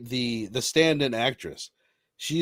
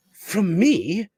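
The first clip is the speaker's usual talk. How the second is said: mock jolly; 7 semitones higher than usual. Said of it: "he's so damn jolly".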